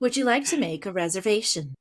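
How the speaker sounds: quick flat assistant voice; robot voice. Acted. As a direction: speak like Siri. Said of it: "I really like your robot voice".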